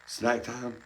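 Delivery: high, lightly put-on pet voice; voicing the monkey. Owner voices pet monkey wanting a snack, high mock voice. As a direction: squeak it out as the eager monkey. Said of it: "He said".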